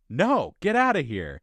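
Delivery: high, loud hammed-up brush-off; retold quarrel shout; mock angry refusal. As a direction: yell him away, playing it up. Acting out the film's argument.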